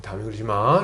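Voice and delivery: low, soft gentle admonition; soothing parent. Retold or imitated. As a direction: voice a parent comforting a child after scolding. Acts parent soothing hugged child.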